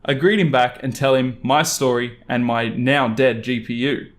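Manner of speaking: ordinary delivery, nothing marked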